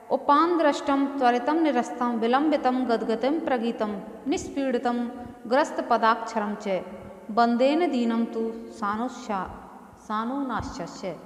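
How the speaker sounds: measured Sanskrit verse recital; गंभीर श्लोक पाठ; shloka recitation. Acted. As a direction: recite the verse like a scripture lesson.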